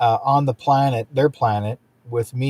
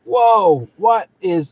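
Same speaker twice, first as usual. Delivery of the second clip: acted awe, high and drawn out; first-time amazement; 7 semitones higher, slower than usual. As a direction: play a stunned first-timer, pitched up and slow. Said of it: "for the first time, you're going like".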